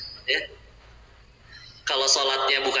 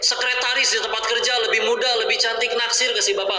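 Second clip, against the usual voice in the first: higher, teasing tempter voice; tempting whisper of desire; 8 semitones higher than usual. Retold or imitated. Desire tempting the husband with other women, higher teasing voice. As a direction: lure him like a sly tempter.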